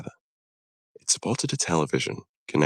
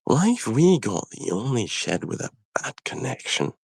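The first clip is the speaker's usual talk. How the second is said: Scottish engine voice; 6 semitones higher than usual. Acted. Engine complaining about fuzzy TV.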